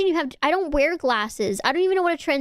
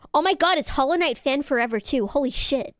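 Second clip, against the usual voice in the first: mildly excited, quick burst; pleasantly surprised to see a fan; excited greeting; 3 semitones higher than usual. Real, not acted. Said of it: "I got so excited".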